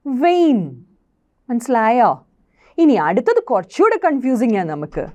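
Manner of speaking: ordinary delivery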